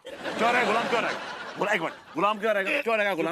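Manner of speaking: high, insistent challenge; heated objection. Acted. Defending a man called a slave, heated challenge.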